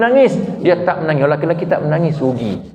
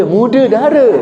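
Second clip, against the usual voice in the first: laughing; 7 semitones higher, 4 dB louder than usual. Real, not acted. Joking about a young camel.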